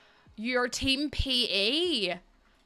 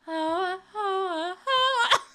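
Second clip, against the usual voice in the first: laughing; 9 semitones higher, much slower than usual. Real, not acted. Laughing again.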